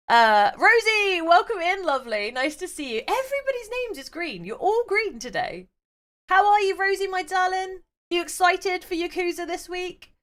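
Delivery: high, lilting host voice; high sing-song greeting. Acted. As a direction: greet the viewer sweetly.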